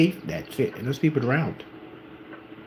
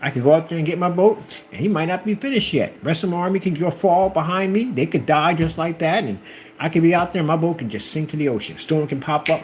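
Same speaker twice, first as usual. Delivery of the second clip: higher-pitched mock worry, tumbling on; worried excuses; 6 semitones higher than usual. General fearing God isn't finished yet, worried rambling. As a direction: play someone listing disasters that could befall him.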